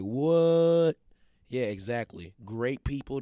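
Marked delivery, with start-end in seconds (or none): 0.0-0.9 higher, louder stunned shout; imitating the crowd's stunned reaction; mock amazed what. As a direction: play the crowd's disbelief. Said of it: "Everybody's like".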